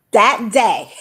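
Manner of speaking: breaking into a laugh of joy. Real, not acted. Laughing while telling her story.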